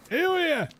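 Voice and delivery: high, careful, spelled-out English; slow tourist English. Retold or imitated. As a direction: talk slowly as if to a foreigner. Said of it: "slowing down their English tune".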